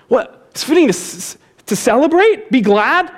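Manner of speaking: incredulous. Acted. Mock disbelief at the verdict.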